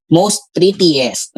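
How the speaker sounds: slow, drawn-out quote of the error; slow mock of a grammar error; mock wrong usage. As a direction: say it slowly as the mistake to avoid. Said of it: "Mali yun".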